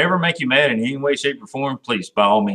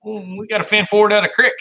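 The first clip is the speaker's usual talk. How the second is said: put-on hick Southern accent; 6 semitones higher than usual. Host jokes back about Kentucky water in a mock Southern accent. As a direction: ham up a backwoods Kentucky accent.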